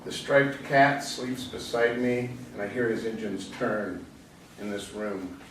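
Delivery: recited lines with pauses between phrases; poetry reading. Acted. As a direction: read it as a poem, easing down to the last line. Reads own poem aloud.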